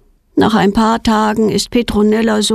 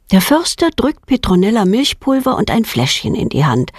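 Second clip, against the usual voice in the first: ordinary delivery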